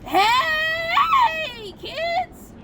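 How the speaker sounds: high, bright straining elf voice; christmas elf. Acted. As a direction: squeal it like a cheery elf. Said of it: "practicing my elf voice".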